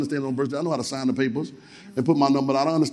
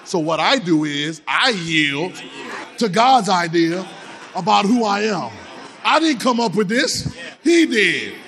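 slow and emphatic preaching; hammered-home sermon line; slower than usual. Acted. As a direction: press each word on the church. Preaching at full force.

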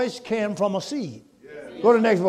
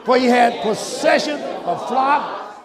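reading aloud with the congregation; 5 semitones higher, 4 dB louder, slower than usual. Shown as a demonstration. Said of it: "read it with me".

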